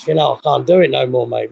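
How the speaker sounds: panting from the uphill climb; breathless, gasping between words; out of breath. Real, not acted. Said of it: "I'm out of breath".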